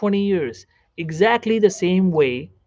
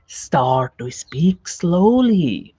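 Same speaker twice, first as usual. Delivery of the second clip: words stretched out, very slow; slow speech; much slower than usual. Shown as a demonstration. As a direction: draw out each word as a model. Models the slow speech he advises.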